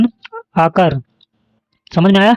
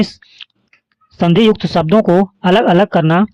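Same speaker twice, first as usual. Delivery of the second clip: slower, stressing युक्त; slow emphatic repeat; slower than usual. Shown as a demonstration. Teacher repeating the definition slowly for students to memorise. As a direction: drill it in slowly so it sticks. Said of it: "संधि विच्छेद का अर्थ क्या है?".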